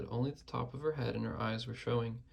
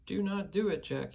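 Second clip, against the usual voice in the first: high, louder frightened screech; 7 semitones higher, 3 dB louder than usual. A narrator's reading. Tormented giant screeches at Jack, high and frantic. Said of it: "he screeched".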